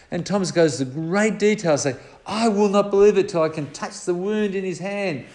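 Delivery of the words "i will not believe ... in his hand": higher, insistent listing of demands; exaggerated demands. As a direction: pile on the conditions, stubborn doubter. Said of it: "he just goes on and on in terms of exaggerating".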